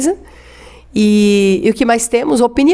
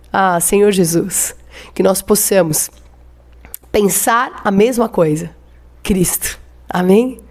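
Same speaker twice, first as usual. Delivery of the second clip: slow, earnest prayer to the Lord; slower than usual. Acted. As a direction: pray it out, drawing the words out. Pastor leads closing prayer. (oração pausada e fervorosa)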